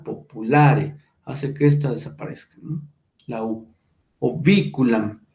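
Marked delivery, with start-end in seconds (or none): 0.0-1.0 "populare" stressed on the a of -la-, pitch lower. Shown as a demonstration. Teacher shows which syllable is tonic, "populare" stressed on la. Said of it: "La A, que es la tónica". 4.2-5.2 "Oviculam" stressed on the syllable vi. Shown as a demonstration. Teacher shows the tonic vowel, "Oviculam" stressed on vi. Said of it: "la I es la tónica".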